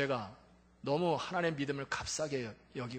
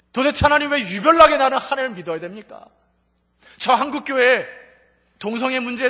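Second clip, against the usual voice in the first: rising, loud indignant complaint; retelling the pharmacist's angry complaint to God; protesting to God; 6 semitones higher, 10 dB louder than usual. Retold or imitated. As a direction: pour out the grievance louder and louder. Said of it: "하나님께 따지기 시작합니다".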